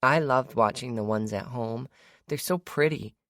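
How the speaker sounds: put-on high, smiling little girl; sweet child, delighted. A narrator's reading. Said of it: "Olive said with a smile".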